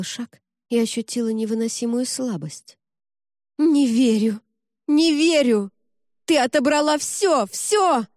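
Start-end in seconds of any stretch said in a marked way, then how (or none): 3.6-8.1 high, loud desperate shout; desperate screaming. A narrator's reading. Jemma screaming at Cassandra that she took everything, desperately. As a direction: scream it out in despair. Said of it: "отчаянно кричала Джемма".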